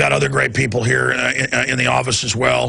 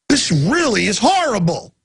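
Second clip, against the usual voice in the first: real, barely holding back tears; fighting tears on the word horrible; 5 semitones higher than usual. Real, not acted. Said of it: "I'm holding back tears".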